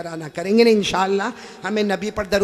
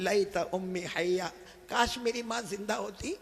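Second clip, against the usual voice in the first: soft longing; 9 dB quieter than usual. Acted. Prophet's longing lament, quiet.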